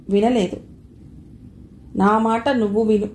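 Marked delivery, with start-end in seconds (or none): 2.0-3.1 grave command. Acted. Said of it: "భయంకర గాంభీర్యంతో".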